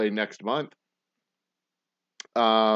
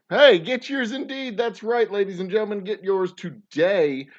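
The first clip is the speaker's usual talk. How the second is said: loud, high, hyped-up echo; excited pitchman; 9 semitones higher, 6 dB louder, slower than usual. Acted. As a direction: whoop it up like a showman. Host echoes ad loudly.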